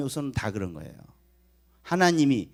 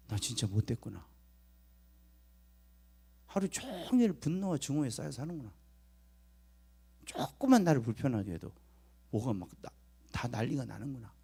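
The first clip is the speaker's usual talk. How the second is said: softly voiced, acted remorse; quiet musing to oneself; subdued self-realisation; 7 dB quieter than usual.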